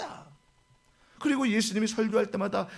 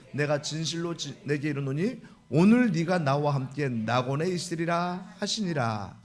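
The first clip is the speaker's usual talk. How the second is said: scripture reading; 3 semitones lower than usual. Acted. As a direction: read the passage with reverence. Reads scripture passage. (엄숙한 성경 낭독)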